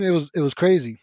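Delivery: usual speaking voice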